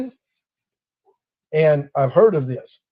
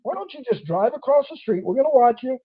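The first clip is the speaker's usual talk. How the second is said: higher, chuckling officer voice; the officer letting him go, amused and higher; 7 semitones higher than usual. Retold or imitated. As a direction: play the cop half laughing.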